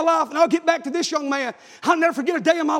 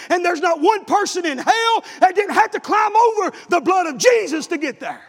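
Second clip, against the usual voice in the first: preaching. Acted. Preacher exhorting the congregation.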